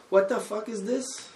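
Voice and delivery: mock English accent. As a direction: play a furious English TV chef's English accent. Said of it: "That was my English accent".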